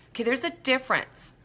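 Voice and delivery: ordinary talk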